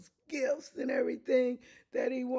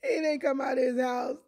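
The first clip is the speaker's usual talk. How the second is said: louder, higher preaching shout; 5 semitones higher, 5 dB louder, faster than usual. Real, not acted. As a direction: hammer the point home loud.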